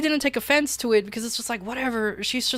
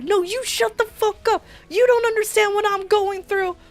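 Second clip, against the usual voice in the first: mimicking angry woman; 12 semitones higher, 4 dB louder than usual. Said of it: "She, like".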